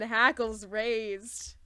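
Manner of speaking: usual speaking voice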